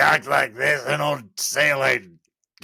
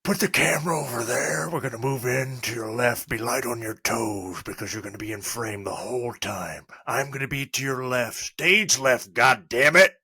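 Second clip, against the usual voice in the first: Clint Eastwood impression. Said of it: "wants you to do Clint Eastwood".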